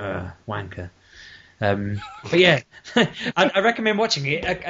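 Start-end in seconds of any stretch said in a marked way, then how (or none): 0.0-0.9 low, quiet disgusted ugh; disgusted grumble. Retold or imitated. Gamer let down by Ryu's ending, disgusted mutter. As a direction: mutter contempt under your breath. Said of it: "I'd have been like".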